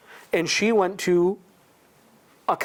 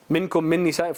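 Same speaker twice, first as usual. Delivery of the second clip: quick, flowing recited chant; Quran recitation; much faster than usual. Shown as a demonstration. Preacher reciting the verse about the arguing wife, fast chant. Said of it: "the ayat I wanna read to you".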